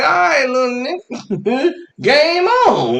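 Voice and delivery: high, loud comic battle cry; accepting a challenge. Acted. Boyfriend answers five-year-old rival, loud mock challenge. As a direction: shout it like the war has begun.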